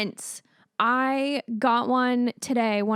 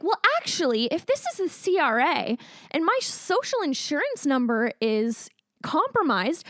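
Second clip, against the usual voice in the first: mock polite; 3 semitones higher than usual. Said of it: "And I was like".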